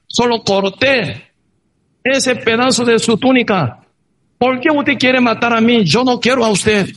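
high, calling to someone far off. Acted. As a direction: shout it across to the king. David calls out to King Saul. (llamada en voz alta, aguda y lenta)

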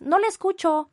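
high, loud fake bad-line reply; mock operator. Imitating the operator pretending not to hear, high and loud. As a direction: play deaf on purpose. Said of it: "Y otra vez".

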